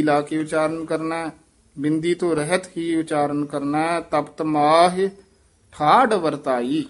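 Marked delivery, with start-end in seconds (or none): 4.0-6.8 ਠਾਢ said with a retroflex ਢ and no nasal sound, slowly; thaadh without nasal. Shown as a demonstration. Teacher correcting the pupil's ਠਾਢ, slow and clear. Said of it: "ਢੱਡੇ ਨਾਲ ਬੋਲਣਾ".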